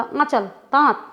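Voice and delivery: आंचल, दांत clipped, lightly nasal; quick nasal vowel. Shown as a demonstration. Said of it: "जल्दी से बोला".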